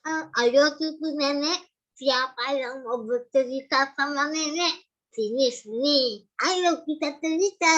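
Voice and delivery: put-on slow old granny calling her grandchild; grandma voice. Shown as a demonstration. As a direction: coax the little one over like a doting nenek. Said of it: "mau jadi seorang kakek-kakek atau nenek-nenek". (nenek yang lambat memanggil cucunya)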